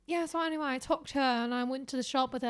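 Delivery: overheard British chatter, lightly imitated; casual put-on British accent; mock British accent. Voicing British passers-by, mock British accent. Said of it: "repeating British shit I heard".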